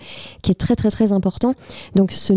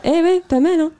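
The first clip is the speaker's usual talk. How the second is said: pleased; 9 semitones higher than usual. Real, not acted. Proud after her English names.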